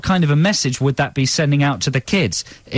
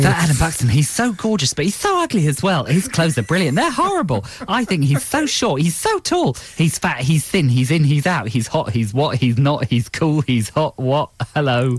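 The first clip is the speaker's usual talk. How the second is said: gossip magazine editor. Retold or imitated. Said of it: "a glimpse into the mind of the editor of Heat magazine".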